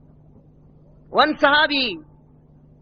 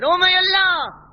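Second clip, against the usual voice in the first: raised cry to Allah; 4 semitones higher than usual. Acted. Old companion addressing Allah.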